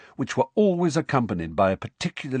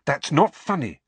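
a sharp, raised rebuke; 5 semitones higher, 4 dB louder than usual. Acted. Hermione sharply rebuking Harry's joke, sharp. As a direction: cut him off sharply. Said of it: "said Hermione sharply".

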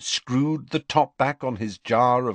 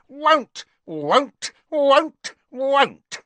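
high, slow croaking elf voice, louder each time; croaking house elf; 6 dB louder, much slower than usual. A narrator's reading. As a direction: croak it out like a stubborn little elf. Elf keeps croaking refusal.

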